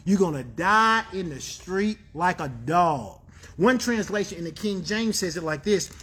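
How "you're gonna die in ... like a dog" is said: lightly voiced stern parent; low, a hint of parental warning; parent to kids. Preacher imitating how parents talk to kids, lightly stern. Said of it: "when we talk to our kids, we talk like this".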